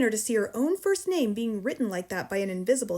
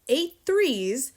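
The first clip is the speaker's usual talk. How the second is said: loud, raised-pitch sum; shouted; 4 semitones higher, 5 dB louder than usual. A narrator's reading. Headmistress swinging pupil by his ankle, shouting. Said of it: "the Trunchbull shouted".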